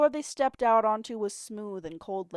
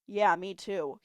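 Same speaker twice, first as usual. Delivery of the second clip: grunting; slower than usual. Acted. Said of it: "he grunted".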